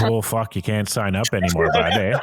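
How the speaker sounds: lightly hammed-up French Canadian; French Canadian accent. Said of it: "the weird French Canadian accent".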